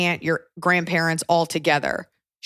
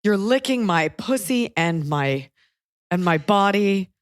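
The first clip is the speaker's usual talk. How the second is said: slow, halting mock read-aloud of song lyrics; reading lyrics back; 2 semitones higher, slower than usual. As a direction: imitate a mom slowly reading out lyrics. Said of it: "read the lyrics".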